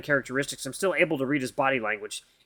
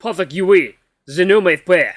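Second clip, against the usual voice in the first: booming alien speech; 3 semitones higher, 9 dB louder, slower than usual. Acted. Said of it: "the boomy quality of his voice".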